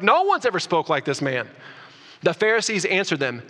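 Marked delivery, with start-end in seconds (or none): 0.0-1.5 a mild amazed exclaim on ever; exclamation. Retold or imitated. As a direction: say it as the awed guards would, lightly. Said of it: "Like, they're like".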